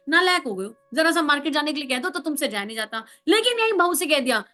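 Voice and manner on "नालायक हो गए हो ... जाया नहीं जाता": fast, fond mock scolding of a lazy son; tut-tut at him affectionately, rattling it off; sweet scolding. Mother fondly scolding her lazy son, quick teasing tone. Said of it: "थोड़ा बहुत मीठा मीठा डांट देंगे".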